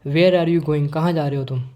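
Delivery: loud, interested question. Shown as a demonstration. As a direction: punch out "Where are you going" as a real question. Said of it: "मैं तेज़ आवाज़ में बोलूँगा". (तेज़ आवाज़ में पूछना)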